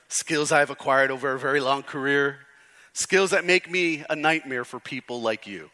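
level, steady movie-threat delivery; Liam Neeson. Retold or imitated. Pastor continuing a film hero's speech, lightly imitated threat. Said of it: "Can't say it the way he does".

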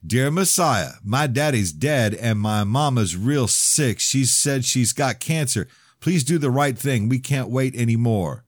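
slow, mock-solemn newsreader read; mocking reporter voice. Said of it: "In his stupid-ass reporter voice".

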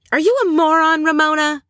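mock enraged. Jill enraged at being confronted with the truth, mock outrage. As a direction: imitate an enraged insult, pitch shooting up. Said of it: "becomes more enraged. And she's like".

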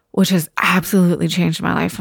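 getting choked up. Real, not acted. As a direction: voice tight with tears. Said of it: "I'm fucking getting choked up right now".

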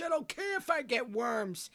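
don't care, savor every word; defiant glee. Real, not acted. To cohost, defending raw steak with high glee.

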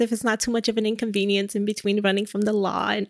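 mildly meek, over-apologetic rambling; meek persistence. Acted. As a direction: hurry through a timid request. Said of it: "he's not being aggressive".

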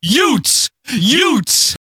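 high, spaced-out mock yelps; imitated repeated cry. Host mimicking wrestler's repeated cry, mock yell. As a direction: yelp it high, leaving gaps between. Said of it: "He just keeps".

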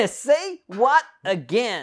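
slow, high echo through laughter; laughing. Pretend. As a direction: repeat it while laughing. Laughing repeat of quote.

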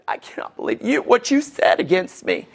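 high, hammed-up anguish; emotional wreck. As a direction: act out a mock meltdown, pitch climbing steeply. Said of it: "you're just an emotional wreck".

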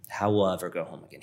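a brother's remorse, echoed softly. Retold or imitated. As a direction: let the second one sink away. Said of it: "he essentially says".

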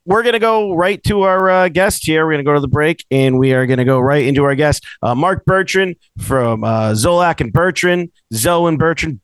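lifted show-host announcing voice; radio host intro. Acted. Host introducing the Boston sports radio guest, announcer voice.

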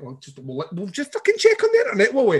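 mock huffy parent; sarcastic challenge. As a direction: call the bluff, sarcastically quick. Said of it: "And I'm like".

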